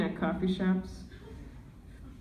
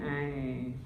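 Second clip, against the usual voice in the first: grandma impression; 6 semitones lower than usual. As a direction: croon at the granddaughter like an old abuela. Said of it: "She's like".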